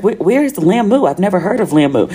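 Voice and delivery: mock bewilderment; retold puzzlement. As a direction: ask it as the baffled friend. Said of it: "I was like".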